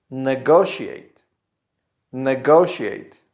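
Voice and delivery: slow "Negotiate", stressed ne-GO-shee-ate. Shown as a demonstration. Teacher models verb number four, slow with stressed GO. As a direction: stretch GO in "Negotiate", slowly. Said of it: "here the stress is in go".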